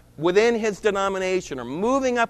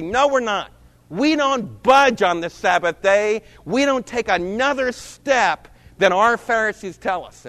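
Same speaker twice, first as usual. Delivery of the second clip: indignant crowd; 2 semitones higher, 5 dB louder than usual. Acted. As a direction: protest like offended Pharisees. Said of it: "They say".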